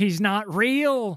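shrieking cry, high, very loud. Ally, mind undone by the sight of Nautilus, screaming. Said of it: "screamed Ally".

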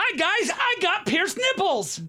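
very high, very slow excitable cartoon voice, squealed. Performing a requested enthusiastic line, sounding like Roger Rabbit. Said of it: "you sound like Roger Rabbit".

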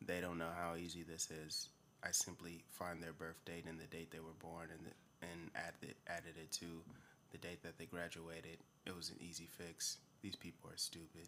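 soft, dead-flat monotone, all on one note. Describing a TV show's hacker and quoting him, super monotone. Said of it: "He's like super monotone".

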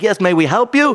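put-on Yiddish-tinged accent. Retelling museum staff greeting the speaker, in a stereotypical Jewish accent. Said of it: "I'm going to do a stereotypical Jewish accent".

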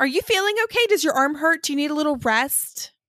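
put-on high, loud, spoiled-brat voice. Translating the other speaker's request into brat, in a put-on bratty voice. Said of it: "Translate that into brat".

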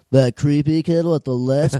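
very nasal, stuffed-up, through-the-nose delivery. Quoting a line from a movie scene: imitating a nasal voice. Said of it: "he's so nasal in that scene".

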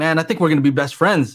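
normal talking voice

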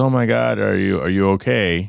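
put-on very slow words, laughing through them. Retelling falling into the pool and her coming out, imitating her laughing while talking. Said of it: "Still laughing".

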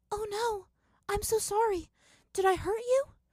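high-pitched, alarmed, worried, panicked. Narrating a masked opponent apologizing after grazing Zuko with a sword, soft but panicked. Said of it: "she asked in a soft but panicked voice".

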